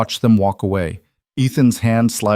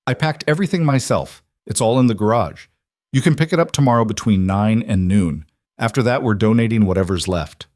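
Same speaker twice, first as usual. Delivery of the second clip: bright and helpful. Acted. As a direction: chirp I packed everything myself sweetly. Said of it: "Lila interrupted brightly".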